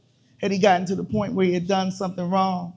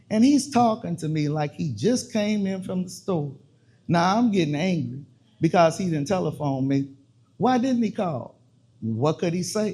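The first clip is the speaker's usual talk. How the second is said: spoken word poem. Acted. Poet performing a piece to an audience, measured and dramatic. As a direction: perform the piece to a listening room, dwelling on each line.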